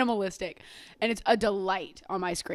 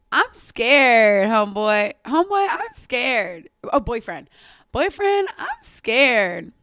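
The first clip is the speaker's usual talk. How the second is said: mock scared shout; 2 semitones higher, 8 dB louder, much slower than usual. Fan quoting a pop meme, hammed-up loud mock fear. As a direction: yell it like a campy meme quote.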